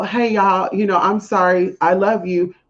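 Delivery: mock-polite apology over anger; fake nice. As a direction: sweet-talk them while admitting you're mad. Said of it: "I can't be fake like that".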